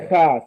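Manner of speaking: Cha scraped from the back of the throat; guttural Hebrew Cha; throaty Cha. Shown as a demonstration. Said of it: "Scratch it back to your throat".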